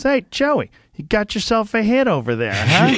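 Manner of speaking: high-pitched imitation of a chummy comic; Dennis Miller. Comedian greeting a stranger at the urinal, high-pitched impression. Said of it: "Dennis pulls up beside me, and he goes".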